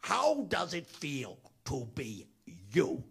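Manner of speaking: squawky cartoon parrot voice, slowed on the question; a puppet parrot talking to a little boy; Gilbert Gottfried as Iago. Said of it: "And in Gilbert's voice".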